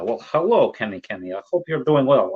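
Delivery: a hint of a Russian accent, half-joking. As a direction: greet him in a playful put-on Russian accent. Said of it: "I'm speaking in the Russian accent".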